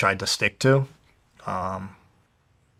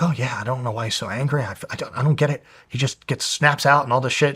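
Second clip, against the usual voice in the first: weird fast sympathy; 3 semitones higher than usual. Retold or imitated. Stepmother figure used to be sympathetic about his anger, mock-sympathetic. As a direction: imitate her sympathetic fretting, pitched up and hushed. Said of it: "spoke super fast and fucking weird".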